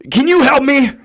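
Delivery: a hint of a raspy stranger asking for help; raspy old lady voice. Raspy stranger asking the narrator for help, lightly voiced. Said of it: "in a real raspy voice".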